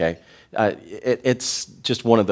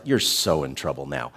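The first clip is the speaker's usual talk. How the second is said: mock scolding; 8 semitones lower, 5 dB quieter than usual. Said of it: "we use that word".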